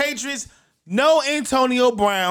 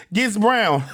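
laughing; 3 semitones lower than usual. Real, not acted. Laughs mid-news on Brown trade.

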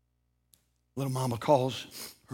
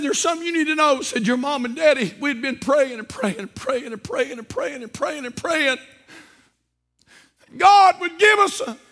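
loud preaching; 11 semitones higher, 8 dB louder than usual. Acted. Preacher to church, retelling the father's words in a loud high shout.

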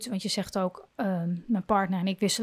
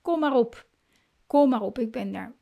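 calm inner voice; 2 semitones higher than usual. Shown as a demonstration. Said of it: "kan je in jezelf zeggen".

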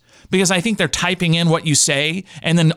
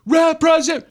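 high, slow, drawn-out shout of the word; stretched, furious yell for a human operator; yelling at phone menu; 12 semitones higher, 4 dB louder, slower than usual. Retold or imitated. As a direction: bellow it at an automated phone system. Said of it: "you're just yelling".

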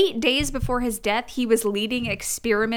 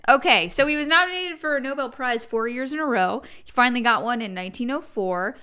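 talking faster. Real, not acted. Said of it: "I'm talking faster because".

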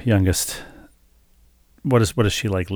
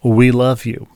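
louder, lightly voiced gushing lady; imitating an admirer; 2 semitones higher, 6 dB louder, slower than usual. Lady in parking lot praises wife, lightly imitated gushing. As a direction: quote a fan declaring love, louder. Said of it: "And she said".

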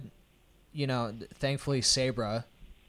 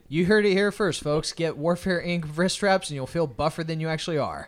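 mock ad read; 3 semitones higher, 4 dB louder than usual. Co-host plugging wrist straps to listeners, mock ad read. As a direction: pitch it like a tongue-in-cheek sponsor plug. Jokes a sponsor-style plug for straps.

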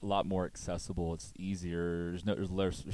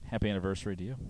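sultry narrator; 4 dB quieter, faster than usual. Acted. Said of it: "He's your sultry voice".

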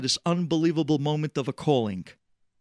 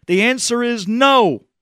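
angry refusal; 10 semitones higher, 10 dB louder, slower than usual. Retold or imitated. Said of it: "he gets so upset".

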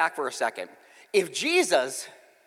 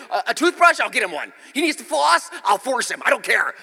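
high, loud, desperate offers; pleading with the dentist; hammed-up panic; frantic bargaining; 5 semitones higher, 5 dB louder than usual. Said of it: "I'm thinking".

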